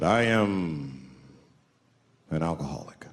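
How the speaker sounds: deep, deadpan elder voice; low flat-toned old Indian man; low solemn confession. Retold or imitated. Indian man voiced in stand-up story.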